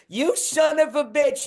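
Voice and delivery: high-pitched retold curse; hammed-up drunk woman yelling; mock angry yell. Woman in the bar cursing at another woman, mock angry.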